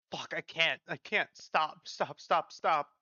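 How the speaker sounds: pained pleading. Acted. Patient begging during painful procedure.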